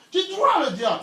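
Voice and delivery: high, loud command "Tu dois le dire"; loud insistence. Shown as a demonstration. Preacher urging the congregation, loud and high. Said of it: "Tu dois crier".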